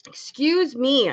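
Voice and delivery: throat still catching; clearing a dusty throat; coughing on dust. Real, not acted. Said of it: "I think I'm choking on dust".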